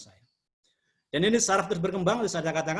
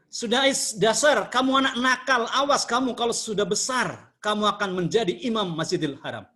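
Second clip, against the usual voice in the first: mock angry scolding; 4 semitones higher than usual. Mother scolds her naughty son during guests, mock angry. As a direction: play the mother telling off her mischievous son. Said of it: "Ibunya marah sekali".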